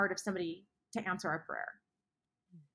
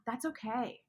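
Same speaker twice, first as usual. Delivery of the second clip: hushed, gentle whisper of comfort; whispered reassurance; soft reassurance; 6 dB quieter than usual. Real, not acted. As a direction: breathe it out softly to calm them. Reassuring a struggling listener.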